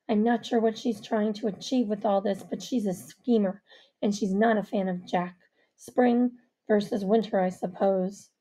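Avery, low and wary; low male character. Acted. Avery voiced by the narrator.

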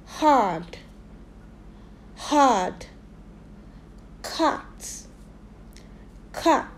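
Farm, Hard, Cut, Mark, Lock, each twice with open "ah"; isolated model words, long pauses for repeating; repeat-after-me drill. Shown as a demonstration. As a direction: say each word alone, "ah" in the middle. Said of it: "Repeat after me".

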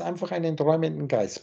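„Geist“ betont und deutlich abgesetzt; stress on Geist. Shown as a demonstration. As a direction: lean on „Geist“ at the end. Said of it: "Betonung liegt auf roten Geist". (Betonung auf „Geist“)

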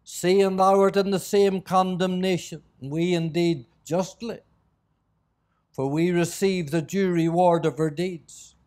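measured, solemn Bible reading; scripture reading. Acted. Preacher reading the crucifixion to the congregation, solemn scripture reading. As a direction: read it out in deliberate phrases with long pauses.

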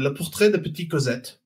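title read in a French accent; French pronunciation, offered as a demonstration. Shown as a demonstration. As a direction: show how the French title sounds. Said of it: "How was the French accent there".

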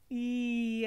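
stretched cat meow sliding through every vowel; warm-up meow for singers. Shown as a demonstration. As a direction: open the meow slowly vowel by vowel. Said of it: "get all of the vowels in".

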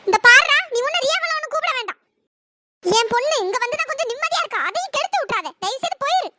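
loud burst, then heated warning; angry order with a shouted first phrase; really angry. Acted. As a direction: forbid it and send the visitor away. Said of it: "அத்தை சரியான கோவத்துல இருக்காங்க".

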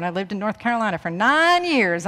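light Southern accent, stretch out "nine". Real, not acted. Speaker slips into Southern talking of North Carolina, Southern accent. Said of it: "I'm just lapsing into Southern".

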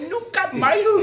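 high voice breaking into laughter; can't finish for laughing; laughing through the quote. Retold or imitated. (falando rindo, sem conseguir terminar)

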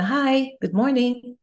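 friendly neighbour's hello; friendly greeting. Acted. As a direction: greet a passing stranger in a lifted voice.

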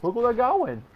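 loud, high urgent yell; alarmed shout. Real, not acted. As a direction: shout the warning to the team. Repeats callout shouting.

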